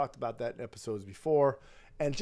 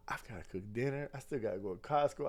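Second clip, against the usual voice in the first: fast whisper to herself; whispered thought; 3 semitones lower, 6 dB quieter, faster than usual. Retold or imitated. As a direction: whisper the chore list quickly under your breath. Inner thought under chores.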